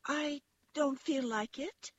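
high-pitched little rabbit voice; small high voice, making an excuse; toy rabbit. A narrator's reading. Velveteen Rabbit declines the wild rabbits' invitation to play, in a high little voice. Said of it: "said the rabbit".

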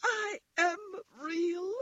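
high, slow little-rabbit protest; nearly crying. A narrator's reading. Toy rabbit defends himself to the wild rabbits, nearly crying. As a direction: plead in a tiny high voice, close to tears. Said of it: "he nearly began to cry".

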